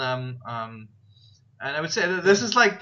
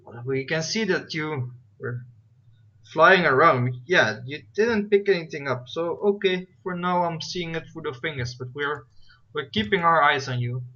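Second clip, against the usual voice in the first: put-on Russian robotic accent; 2 semitones higher, 4 dB louder than usual. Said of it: "Russian robotic accent".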